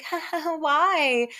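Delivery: high mock titter into a question; awkward giggle. Woman answering his psycho remark, awkward mock giggle. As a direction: imitate her nervous, high-pitched laugh.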